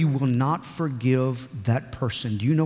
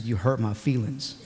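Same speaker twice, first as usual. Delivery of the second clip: soft, low hurt whimper; sulky whine; 6 semitones lower, 5 dB quieter than usual. Retold or imitated. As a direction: mope the line like a wounded child. Sulking husband retold.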